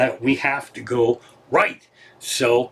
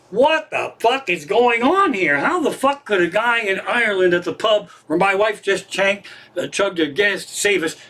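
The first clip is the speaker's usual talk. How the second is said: higher-pitched, incredulous retelling; mock outraged astonishment; retold disbelief; 4 semitones higher than usual. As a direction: act out being utterly baffled. Acting out his baffled reaction.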